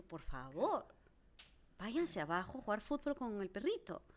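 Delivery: mock-polite, slow, a touch of disdain; lightly imitating cold courtesy; disdainful politeness. Telling neighbour's kids off, mildly disdainful polite tone. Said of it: "con este tono de voz, de desdén".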